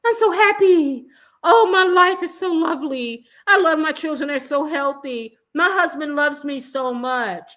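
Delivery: high, loud, gushing mock-happy voice; mocking Meghan. Vlogger mocking Meghan's podcast boast, high gushing mock voice. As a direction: sneer at her by gushing way up high. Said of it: "she said".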